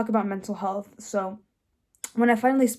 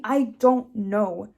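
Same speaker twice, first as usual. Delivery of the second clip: slow, louder, drawn-out reply; insistent repeating; 6 dB louder, much slower than usual. Retold or imitated. Daughter repeating her answer to parents, slow and insistent. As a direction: stretch out each word in helpless repetition. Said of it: "I kept repeating".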